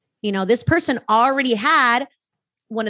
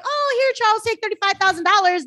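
high, breezy mock lender offering cash; mimicking a bank tossing money at Charles; eager lender; 10 semitones higher than usual. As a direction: dangle the money like a pushy bank rep. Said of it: "just because they're like".

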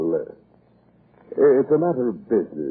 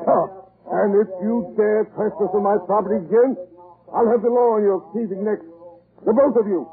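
high, building threat; furious threat; 9 semitones higher than usual. Acted. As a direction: threaten them with the law. Lord threatens trespassers with law.

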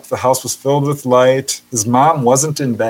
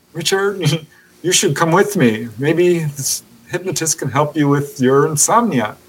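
lightly voiced mom, pitched higher; coaxing mom; 4 semitones higher than usual. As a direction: gently mimic a mother's higher-pitched coaxing. Mom coaxing son toward hypnotist.

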